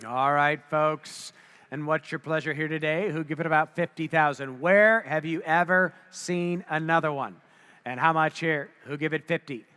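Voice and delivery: rapid auctioneer bid calling. Real, not acted. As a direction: call the bids like an auctioneer.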